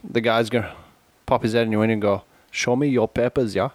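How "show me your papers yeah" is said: light mock German border guard accent. Joking at a border, mild German accent. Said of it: "That was my attempt at German accent".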